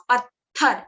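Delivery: पत्थर with a strong aspirated th; teacher models पत्थर, tongue between teeth, airy th; model word. Shown as a demonstration. Teacher to students, careful aspirated model. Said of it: "जब आप पत्थर बोलते हो".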